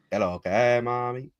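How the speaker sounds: mock Dominican slang greeting, lifting at the end; lightly put-on Dominican Spanish accent. Streamer shows how Dominicans sound, mock Dominican accent. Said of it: "that's how Dominicans sound".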